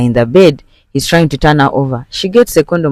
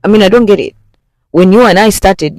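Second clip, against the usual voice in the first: louder, higher defensive outburst; heated retort; 5 semitones higher, 4 dB louder than usual. Retold or imitated. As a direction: push back hard at her. Husband defends himself, heated.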